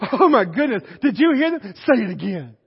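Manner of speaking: loud mock amazement; amused astonishment. Northerners hearing a Southern accent, mock amazed. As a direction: exclaim in mock wonder, dropping on the last words.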